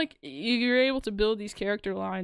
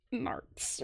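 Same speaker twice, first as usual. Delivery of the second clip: whispered; 4 semitones higher, 10 dB quieter than usual. Retold or imitated. Covering a swear in character.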